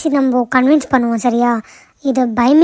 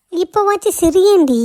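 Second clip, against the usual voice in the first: higher, drawn-out affectionate plea; playful coaxing; 5 semitones higher than usual. Acted. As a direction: coax a friend to smile, slowly. Friend coaxes Nila to smile. (செல்லமாக கெஞ்சி)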